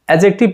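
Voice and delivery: एडजेक्टिव said without its D; silent D. Shown as a demonstration. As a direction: leave the D out of एडजेक्टिव. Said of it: "डी को silent रखना होगा". (एडजेक्टिव, डी silent रखकर)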